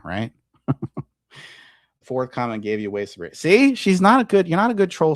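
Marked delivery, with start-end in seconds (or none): 3.4-5.2 taunting. Real, not acted. Taunting the troll in chat.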